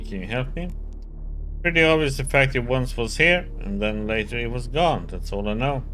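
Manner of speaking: loud, irritated nasal locksmith; annoyed nasally voice. Acted. Voices locksmith character Ryoka.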